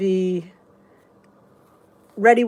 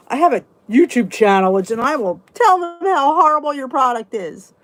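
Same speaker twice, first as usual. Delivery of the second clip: livid; 3 semitones higher, 5 dB louder than usual. Retold or imitated. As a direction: tell them off, reenacting the outrage. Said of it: "I was livid".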